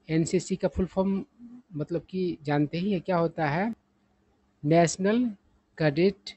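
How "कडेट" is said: "कैडेट" with a short unstressed first vowel, kuh-DET; correct pronunciation. Shown as a demonstration. Teacher expanding NCC, "कैडेट" said kuh-DET. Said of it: "कैडेट नहीं".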